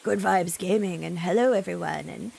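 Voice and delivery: deep voice impression. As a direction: do a smooth deep presenter intro. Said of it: "his voice is very low".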